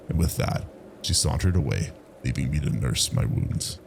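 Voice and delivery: ordinary delivery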